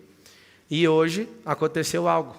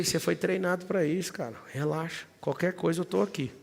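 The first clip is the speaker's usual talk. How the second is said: soft reassurance; 2 semitones higher, 5 dB quieter than usual. Retold or imitated. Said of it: "até a voz eu baixei".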